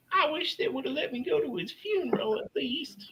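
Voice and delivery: imitating him in a high whisper; whispered regret. Imitating the man still wishing he'd attended the funeral, regretful whisper. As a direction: whisper it like a wistful aside.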